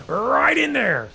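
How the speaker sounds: "Right in there" drawn out slowly in a mock Rick voice; slow, sloppy mock Rick drawl; Rick Sanchez impression. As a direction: stretch "Right in there" long and lazy like Rick. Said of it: "Is this Rick Sanchez casting?".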